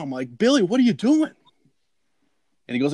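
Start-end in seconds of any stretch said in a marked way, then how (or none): 0.4-1.3 high-pitched, incredulous mock yell; retold yelling. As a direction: re-enact yelling across at a friend. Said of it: "And I started yelling".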